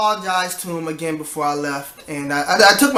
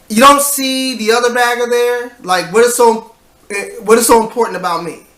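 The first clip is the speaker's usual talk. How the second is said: higher, mildly indignant complaint; exasperated; 5 semitones higher, 3 dB louder than usual. Retold or imitated. Overworked bagger venting about getting every task, exasperated. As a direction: vent at being singled out.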